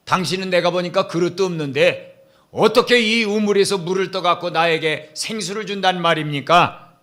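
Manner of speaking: lightly mocking doubt; a hint of scornful challenge; sarcastic questioning. Woman at the well doubting Jesus, mild sarcasm. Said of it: "또 빈정거리는 거예요".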